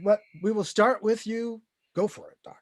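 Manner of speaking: lightly put-on Russian accent; a deliberately bad Russian accent, only hinted at. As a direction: chairman cueing the doctor in a faint mock Russian accent. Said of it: "let's all do it in as close to a Russian accent".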